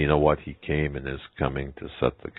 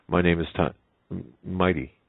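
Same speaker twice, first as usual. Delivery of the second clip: hesitant; 3 semitones higher, slower than usual. Acted. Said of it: "hesitant elephant".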